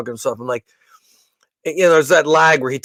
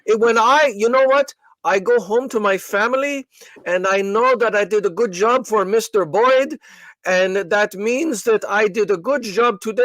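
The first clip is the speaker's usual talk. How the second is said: imitating a robotic call-centre agent, higher and half-whispered; mock customer-service robot, slow and pitched up; 4 semitones higher than usual. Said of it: "like a robot".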